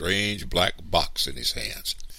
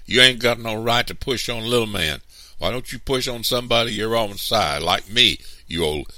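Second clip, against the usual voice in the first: put-on loud, higher child's shout of protest; angry shouting; 7 semitones higher, 7 dB louder than usual. A narrator's reading. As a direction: shout him down in defense of your brother.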